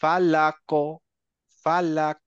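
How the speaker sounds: "ফালাক" with final ক bounced into a short o; qalqalah echo. Shown as a demonstration. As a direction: pop the ক at the end of "ফালাক". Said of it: "একটা ইকো হবে".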